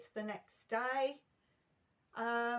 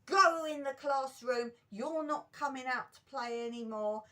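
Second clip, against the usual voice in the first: mock telling-off, louder at the start; retold teacher's shout; 3 semitones higher, 4 dB louder than usual. Teacher sending child in from play, mock shout. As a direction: open with a loud order, then ease off. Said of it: "she shouted at me and she went".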